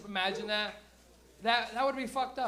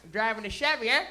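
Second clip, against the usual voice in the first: loud small-town Canadian hick twang; Canadian hick accent; 8 dB louder than usual. Acted. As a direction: talk like a rural Ontario gas-station hick. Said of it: "Why is he talking like that?".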